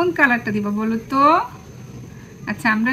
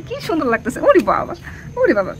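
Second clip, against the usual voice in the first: delighted exclamation; 3 semitones higher, 3 dB louder than usual. Real, not acted. Admiring the dressed-up child.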